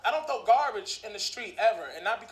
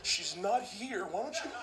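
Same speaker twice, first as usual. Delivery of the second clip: scared denial; 7 dB quieter than usual. Pretend. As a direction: shoo him away quietly.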